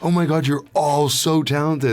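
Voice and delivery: high, hushed-in-wonder gushing without softening; mock awe. Awed by the other voice actors.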